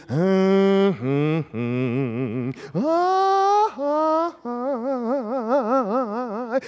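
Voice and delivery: drawn-out dramatic movie "ah" chant; mock film soundtrack wail; movie sound effect. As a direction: hum the suspense sting from a film. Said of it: "our movies seem to always have those sounds".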